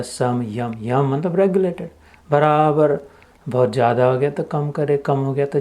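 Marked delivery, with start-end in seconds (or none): 0.0-0.7 समयम said as two words, सम and यम; split into parts. Shown as a demonstration. Teacher showing the sandhi split, समयम in two distinct parts. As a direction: separate सम from यम in समयम. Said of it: "उसका संधि विग्रह होता है".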